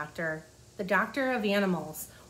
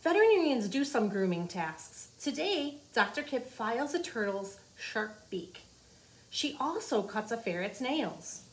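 put-on reading to children. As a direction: clear storybook read-aloud. Reading the book aloud.

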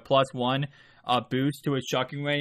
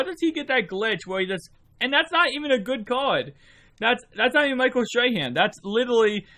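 exasperated; 10 semitones higher than usual. Real, not acted. Frustrated at game AI.

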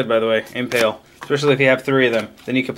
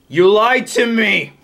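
mock betrayed; 6 semitones higher, 4 dB louder, slower than usual. Treasure card turns out disappointing.

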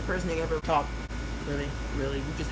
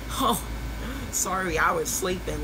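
drawn-out fake apology; mock sleepy excuse; 2 semitones higher, slower than usual. Flaky friend texting a slow, mock sorry. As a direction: read the text like a lazy excuse. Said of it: "I get a text saying".

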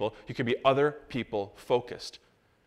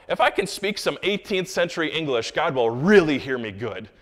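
mock pious; 3 semitones higher, 5 dB louder than usual. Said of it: "people feel extra spiritual".

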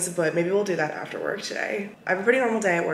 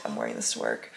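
much lower, quiet tired mumble; tired mutter; 9 dB quieter than usual. Real, not acted. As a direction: drop it low under your breath. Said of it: "I'm not even thinking about it".

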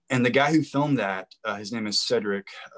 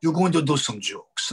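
imitated party host, higher and insistent; Armando impression; 5 semitones higher, 3 dB louder than usual. Party host insisting his guest do some jokes, imitated voice. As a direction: put on the host's voice, pressing the point. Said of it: "This is how he talked".

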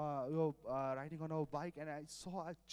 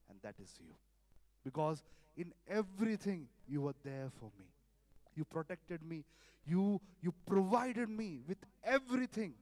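heartfelt prayer; 3 dB louder than usual. Shown as a demonstration. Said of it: "it should come from our heart".

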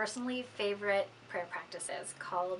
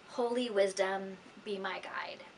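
whispered breath prayer. Shown as a demonstration. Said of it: "You may ask to pray".

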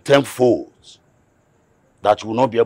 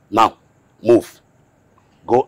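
barked order; 2 semitones higher, 5 dB louder than usual. Acted. Uncle orders nephew off land.

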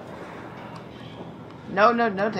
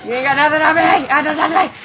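higher, louder taunt; taunting yell; 7 semitones higher, 5 dB louder, faster than usual. Real, not acted. Gamer taunting the monster chasing him, cocky yell.

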